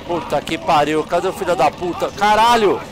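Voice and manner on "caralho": panicked yelling while fleeing; urgent shouts, running for your life; being chased. Real, not acted. Fleeing enemies, helicopter.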